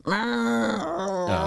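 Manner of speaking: high, drawn-out elevator noise; imitated elevator whine. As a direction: mimic a creaky old elevator.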